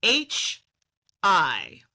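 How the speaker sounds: put-on heavy Yiddish accent, drawn out. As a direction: say hello with a thick Yiddish lilt. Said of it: "apparently with a heavy Yiddish accent".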